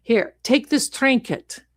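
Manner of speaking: lightly voiced ominous psychic; gypsy fortune teller. Gypsy threatening a client with a curse, lightly put-on fortune teller. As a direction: warn like a hammed-up fortune teller.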